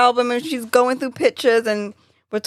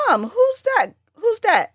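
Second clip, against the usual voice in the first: high-pitched asking of mom; retold puzzled question; 11 semitones higher than usual. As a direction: ask it high, twice over, as if retelling your own puzzlement.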